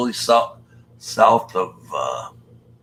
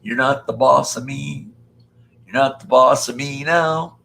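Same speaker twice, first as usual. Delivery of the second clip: put-on defiant kid; 4 semitones higher, 4 dB louder than usual. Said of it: "Mom can't control me".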